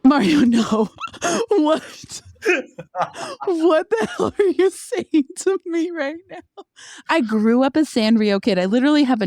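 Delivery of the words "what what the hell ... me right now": high, laughing disbelief; can't believe what she's hearing; shocked disbelief. Real, not acted.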